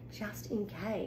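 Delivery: breathy playful whisper; mock-secret whisper for a child. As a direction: tell it like a secret. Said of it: "reader drops into a whisper".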